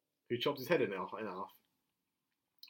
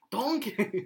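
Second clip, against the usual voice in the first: higher-pitched ogre impression; Shrek; 6 semitones higher than usual. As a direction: call out like the cartoon ogre. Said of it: "Shrek was there as well".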